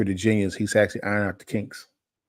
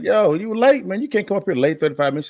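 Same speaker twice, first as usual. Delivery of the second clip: quoting Brooklyn friend; 9 semitones higher, 3 dB louder than usual. Retold or imitated. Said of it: "He like".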